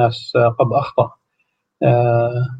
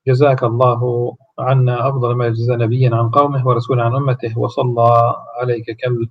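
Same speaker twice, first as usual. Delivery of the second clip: steady devotional litany of greetings; prayerful recitation; faster than usual. Acted. Visitor greeting the Prophet at his tomb, reverent litany.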